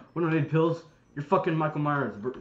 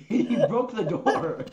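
slow, raised laughing words; real laughter; 5 semitones higher, 6 dB louder, much slower than usual. Real, not acted. Friend cracking up over the broken door, laughing. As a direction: laugh through the words, high and loud.

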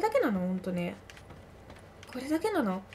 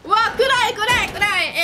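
louder, higher, slowed panic; panicked yelling; 6 semitones higher, 6 dB louder, slower than usual. Real, not acted. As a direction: cry out at the dark. Enters dark space, panics.

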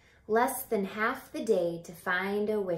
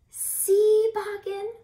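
much higher, louder thrilled see; excited call; 12 semitones higher, 9 dB louder, slower than usual. Acted. Charles shows Boggin the tree, thrilled high call. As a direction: burst out with joy.

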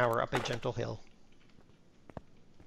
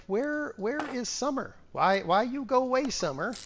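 mock lament; 10 semitones higher than usual. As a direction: wail at summer like a sad child. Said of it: "I'm like".

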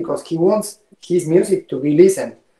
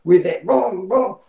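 boom imitation. Shown as a demonstration. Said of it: "like this".

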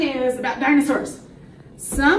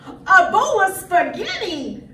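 raised, sing-song announcement; dramatic reveal; 6 semitones higher, 4 dB louder than usual. Acted. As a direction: present the challenger with relish. Announces dinosaur's opponent to children.

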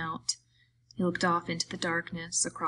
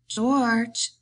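louder, pleading call; 5 semitones higher, 6 dB louder than usual. A narrator's reading. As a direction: call his name again, insistent. Calling out after no answer.

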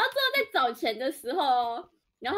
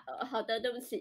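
soft, much quieter meek reply; meek slip; 3 semitones lower, 8 dB quieter than usual. Retold or imitated. Clerk accidentally replying to the angry customer, meek and soft. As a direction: let it slip out meekly. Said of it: "一不小心回他".

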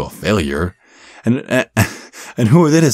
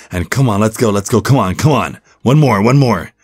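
hyped gym-coach encouragement; urging on; 3 semitones higher than usual. Acted. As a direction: push them through the last rep. Trainer urging client on.

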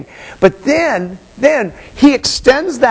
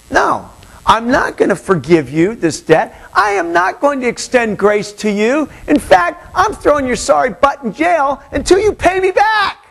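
rising, scornful refusal; harsh refusal; 5 semitones higher than usual. Acted. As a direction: throw him in jail with contempt. Voicing the unforgiving slave.

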